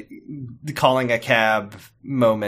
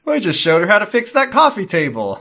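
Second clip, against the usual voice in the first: higher, laughing mock protest; laughing mock dad; 6 semitones higher than usual. Cohost riffing on Pete defending Jackie, laughing mock protest. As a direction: joke along in the dad's voice. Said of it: "he's like".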